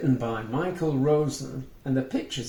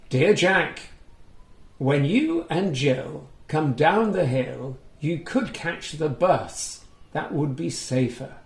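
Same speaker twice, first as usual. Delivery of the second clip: put-on reading to children; 2 semitones higher, 3 dB louder than usual. A narrator's reading. Reading a picture book aloud to young children, lively storytelling. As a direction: bring the story alive for little listeners. Reads Mother Goose's reply.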